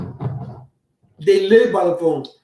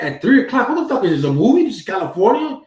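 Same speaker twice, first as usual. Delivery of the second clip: incredulous; 5 semitones higher than usual. Retold or imitated. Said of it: "And I'm like".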